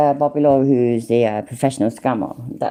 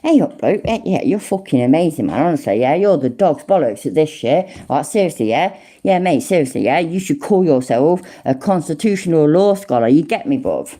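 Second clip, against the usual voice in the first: mock proper English. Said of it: "proper English way".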